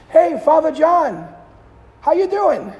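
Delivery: loud, high call across a parking lot; yelled greeting. Retold or imitated. Kid calling to the priest across the lot, loud and high. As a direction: shout it across the cars. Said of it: "he yelled across the cars".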